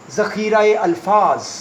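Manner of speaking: ज़ख़ीरा-ए-अल्फाज said slowly, word by word, for writing down; slow dictation. Shown as a demonstration. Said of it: "vocabulary का मतलब होता है". (धीमे, लिखवाने वाले अंदाज़ में)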